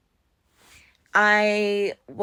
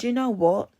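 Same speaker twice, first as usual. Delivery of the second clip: mock-polite goodbye, pitch lifting high at the end; forced kindly farewell; kindly sign-off; 14 semitones higher than usual. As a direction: politely dismiss the date, ending on a high note. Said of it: "kindly said".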